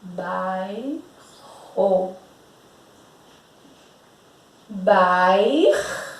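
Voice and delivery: bairro with the first syllable bair stretched out; long first syllable. Shown as a demonstration. Teacher showing the class how bairro splits, long bair. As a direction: draw bairro out, holding bair. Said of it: "olha como essa primeira sílaba vai ficar gigante".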